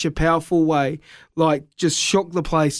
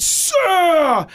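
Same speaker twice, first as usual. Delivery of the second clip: mock preacher's call; 10 semitones higher than usual. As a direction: call out from the stage, pointing. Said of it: "And he went".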